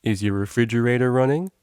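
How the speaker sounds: mock deep prank-caller voice; comically deep voice. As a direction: put on a silly disguise voice. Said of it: "spoke in a comically deep voice".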